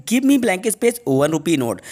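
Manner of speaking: very slow, each word apart; slow dictation. Shown as a demonstration. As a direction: read it slowly so students can write it down. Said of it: "हमारा next example है". (बहुत धीमे, शब्द-शब्द अलग करके)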